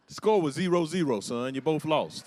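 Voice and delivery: loud fatherly reality check to son; emphatic correction. Real, not acted. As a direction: hammer home that they lost. Setting son straight, loud.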